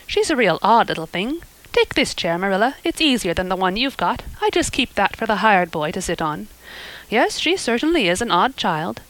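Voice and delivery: put-on motherly neighbour forgiving a child, bluntly; hearty Mrs Lynde. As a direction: talk like a blunt, kindly busybody. Mrs Lynde voiced in story.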